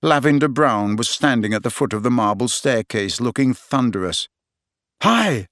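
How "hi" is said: nervous. A narrator's reading. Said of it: "said Ron nervously".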